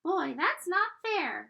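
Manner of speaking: high, loud, slow whine; high drawn-out whine; whining pigtail. Acted. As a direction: drag it out like a sulking tiny voice. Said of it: "whined the pigtail".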